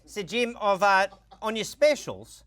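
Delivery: put-on a light Australian accent, slowed; mock Australian, drawn out. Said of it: "I'll do Australian for a minute".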